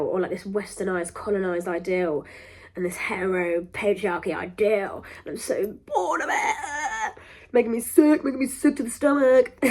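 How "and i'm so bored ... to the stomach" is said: loud, high exasperation; sick-of-it rant, louder; fed up outburst. Real, not acted. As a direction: spit out your disgust.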